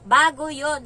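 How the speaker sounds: loud, sharp correction; employer retorting. Retold or imitated. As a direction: snap back that it was new. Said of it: "sabi ng amo ko". (amo na malakas na sumagot)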